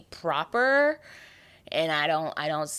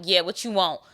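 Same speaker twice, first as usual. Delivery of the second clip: rude phone answer; 2 semitones higher, 5 dB louder than usual. Retold or imitated. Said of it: "answer the phone like".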